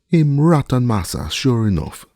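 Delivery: high, loud call from the tree; servant calling down. A narrator's reading. Servant calls answer down to master, high and loud. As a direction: shout the answer down.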